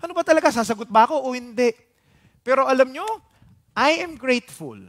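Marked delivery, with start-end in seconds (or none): 0.0-1.7 higher-pitched mock bewildered kid; confused child. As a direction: play a child caught in a no-win question. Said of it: "Kaya yung bata tuloy".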